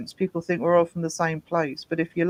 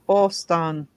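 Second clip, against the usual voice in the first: Boston accent. Shown as a demonstration. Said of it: "Is that how you say it?".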